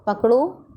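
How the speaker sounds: पकड़ो on its own with a rising end, then a pause; jeda setelah पकड़ो. Shown as a demonstration. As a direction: stop right after पकड़ो, as at a comma. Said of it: "अल्प विराम का प्रयोग है comma".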